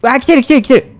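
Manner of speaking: high panicked yelling; hit hard crying out. Real, not acted. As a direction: panic as it closes in. Enemy approaching.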